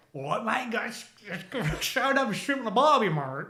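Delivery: high, muddled Cockney-Australian; blended Cockney-Australian accent. Shown as a demonstration. Demonstrating how two accents blend, Cockney-Australian mash-up. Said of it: "with me it blends into the same".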